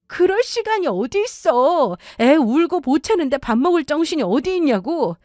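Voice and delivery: high-pitched, indignant wife in a quarrel; aggrieved, pleading protest pitched high; exasperated wife. Acted. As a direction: argue back at your husband, pitch jumping up. Acted wife arguing back.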